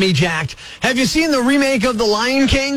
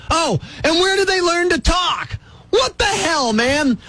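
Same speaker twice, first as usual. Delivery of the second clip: higher, mocking exasperation; sarcastic outburst; 4 semitones higher than usual. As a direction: ridicule it with a raised voice. Sarcastic rant peak.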